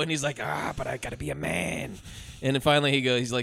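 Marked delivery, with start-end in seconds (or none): 0.4-1.9 put-on voice of a stubborn dad; mock reluctant hero. Dad refusing to leave with family, mock reluctant hero. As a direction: groan it out with put-on resolve.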